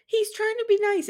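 very high mock pleading; Robin. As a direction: imitate a squeaky, protesting defense. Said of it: "And Robin goes".

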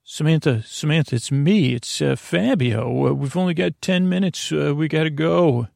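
lightly voiced rescuer; non-regular voice. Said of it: "I'm talking in my non-regular voice".

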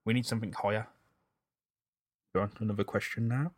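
blocked nose, slightly out of breath. Real, not acted. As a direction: breathe hard through the mouth, nose blocked. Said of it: "I'm sorry for sounding out of breath".

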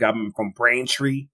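slow, lightly voiced Boston accent; mock Boston accent. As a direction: drawl it out like a Massachusetts local. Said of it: "Boston accent".

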